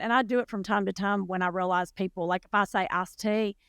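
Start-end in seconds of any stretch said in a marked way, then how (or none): 2.9-3.6 thick Southern drawl on "iced tea"; Southern accent. Shown as a demonstration. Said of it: "speak with a little less of an accent".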